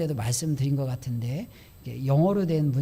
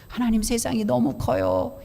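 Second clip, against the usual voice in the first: slightly higher, a touch of a cowed, intimidated plea; mock cowed complaint; 5 semitones higher than usual. Preacher imitating a believer cowed before God, mildly plaintive. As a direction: mimic a believer shrinking before the world. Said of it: "주눅든 심정으로".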